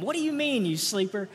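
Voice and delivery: light mock scolding of a sleepy kid; a hint of a parent waking a child. Shown as a demonstration. Parent rousing a kid who sleeps in, mock scolding. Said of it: "you could try saying that to them".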